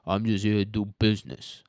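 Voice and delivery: lightly voiced gruff no-nonsense fixer; deadpan all-business line, barely put on; a hint of a weary, all-business hitman; Mike Ehrmantraut impression. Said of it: "what my Mike Ehrmantraut impression sounds like".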